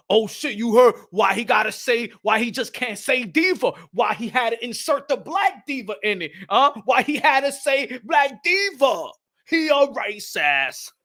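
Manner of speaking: slow, drawn-out indignant complaint; mock outrage. Imagined community member complaining about the diva remark, mock outrage. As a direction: stretch out the accusation, hammed-up.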